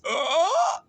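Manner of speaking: high, rising mock gasp of surprise. Imitating what she always says, high swooping cry. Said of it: "she always says this".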